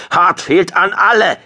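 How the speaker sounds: high, loud, strained call; croaked urgent call. A narrator's reading. Shocked squadron leader to all ships, croaked shout. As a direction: force out an urgent call over the com. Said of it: "krächzte er".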